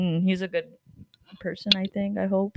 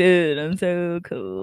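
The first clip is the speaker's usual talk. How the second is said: suave dude; 2 semitones lower, slower than usual. Retold or imitated. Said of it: "all suave".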